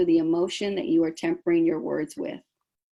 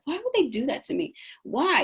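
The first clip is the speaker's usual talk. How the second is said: mock indignant whine; 7 semitones higher than usual. Acting out a hurt, baffled reaction.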